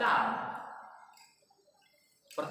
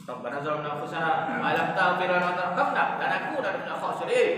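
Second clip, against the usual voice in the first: recited Arabic prayer, louder, steady; prayer recitation; 3 semitones lower, 4 dB louder than usual. Shown as a demonstration. Preacher showing prayer to congregation, recited aloud. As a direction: intone the verse with weight. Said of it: "Lambat-lambat saja".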